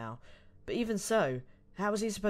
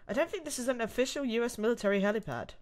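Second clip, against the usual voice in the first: put-on higher, protesting young captive; kidnapped heroine; 7 semitones higher than usual. Ashley doubting her captor, higher-pitched and sceptical. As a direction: play a puzzled captive, pitched up.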